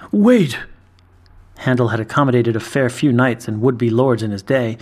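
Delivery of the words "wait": calling out. A narrator's reading. Barman calls the boy back.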